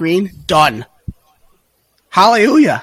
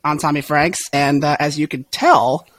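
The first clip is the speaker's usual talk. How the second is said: hoarse voice. Real, not acted. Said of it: "I have lost my voice".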